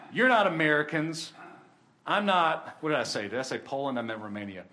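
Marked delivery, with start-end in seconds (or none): 0.1-1.3 louder, lifted proclamation; retold emphatic declaration. Soldier's verdict after reading the verse. 2.0-2.8 louder, lifted proclamation; retold emphatic declaration. Soldier declares shared heavenly citizenship.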